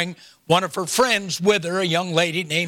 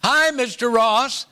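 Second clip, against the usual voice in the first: put-on a higher, slow little-boy hello; young boy's greeting; 4 semitones higher than usual. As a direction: lightly voice a small boy calling out a greeting. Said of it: "I heard this young boy's voice say".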